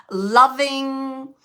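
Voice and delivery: breathy whisper of loving; whispered word. Retold or imitated. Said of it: "She's saying it just like that".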